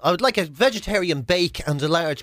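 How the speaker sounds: mock fancy order. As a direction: order like you think it's a cafe. Mock fancy customer ordering in jail.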